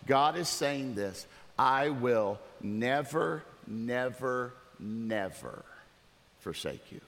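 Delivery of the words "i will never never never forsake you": each "never" slow and separate, sinking lower; stress on each never. Shown as a demonstration. Pastor showing God's strongest negatives, each "never" weighed slowly. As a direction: draw out "never", pause, repeat it more softly. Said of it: "Here's the way it literally comes across".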